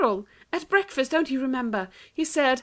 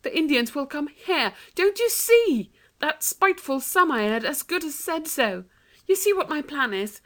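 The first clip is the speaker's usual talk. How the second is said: put-on much higher, urgent girl's voice; 9 semitones higher than usual. A narrator's reading. Anthea urges Jane to help break the jug. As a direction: press your plan on her urgently. Anthea urging her sister.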